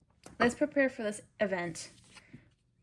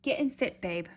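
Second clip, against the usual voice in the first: playful put-on delivery; 5 dB louder than usual. Reader cheering on the viewer, playful and punched up. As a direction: punch it out, pitched up. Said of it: "Gotta say it like that".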